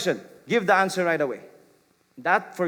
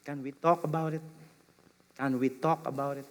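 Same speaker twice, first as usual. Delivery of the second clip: inviting; 5 dB quieter than usual. Shown as a demonstration. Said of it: "That's an invitation".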